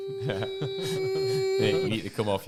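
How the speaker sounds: slow, high, far-off voices as through ringing ears; muffled distant voices. Retold or imitated. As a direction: stretch the words like hearing through a daze.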